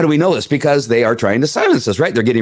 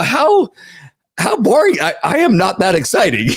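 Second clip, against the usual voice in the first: mock boredom; 8 semitones higher than usual. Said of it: "and I go".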